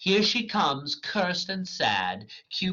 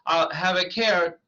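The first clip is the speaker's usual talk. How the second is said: Bottom; 6 semitones higher, 5 dB louder than usual. Acted. Bottom voice, broken off.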